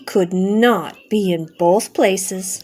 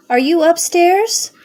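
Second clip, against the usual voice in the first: loud, high calling question; shout; 8 semitones higher, 4 dB louder than usual. A narrator's reading. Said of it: "he shouted".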